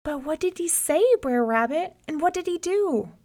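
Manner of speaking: high, urgent questions; eager questioning. A narrator's reading. Townsfolk press the rabbit for news, urgently. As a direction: press him anxiously for the whole story.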